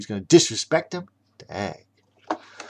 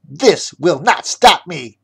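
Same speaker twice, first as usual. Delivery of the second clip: yelling; 5 semitones higher, 6 dB louder than usual. Acted. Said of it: "yelled the chef".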